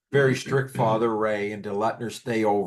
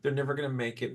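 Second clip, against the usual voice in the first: softer, mocking imitation of doubters; retold dismissive jibe; mocking naysayers; 5 dB quieter, faster than usual. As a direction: parody the gossips under your breath. Imitating doubters who bet against them.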